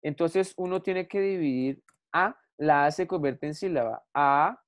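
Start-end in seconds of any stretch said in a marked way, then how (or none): 4.1-4.6 A said alone as one syllable. Shown as a demonstration. Teacher dividing aceptar for the class, A said alone. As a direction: hold A apart as its own syllable. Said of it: "gramaticalmente debería ser así".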